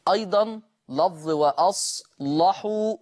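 وأصلحوا with a dark, heavy lam. Shown as a demonstration. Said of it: "غلظ ورش اللام".

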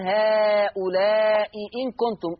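slow recitation of "هؤلاء إن كنتم" with the second hamza fully pronounced; Hafs reading. Shown as a demonstration. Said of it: "مش زي حفص يقول". (تلاوة حفص بتحقيق الهمزتين في "هؤلاء إن كنتم")

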